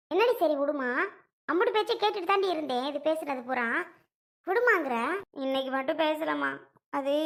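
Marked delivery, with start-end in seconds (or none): 0.1-2.8 scornful retort, mocking her plea; indignant echo. Mother scornfully echoes her daughter's plea back at her, indignant. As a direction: throw the words back indignantly.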